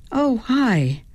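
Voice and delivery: mildly reluctant politeness; forced greeting. A narrator's reading. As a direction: make yourself say hello. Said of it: "I finally forced myself to say".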